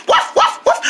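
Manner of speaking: high, short puppy barks; two quick high woofs; dog barking. Acted. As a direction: yap like a little dog. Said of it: "good boy".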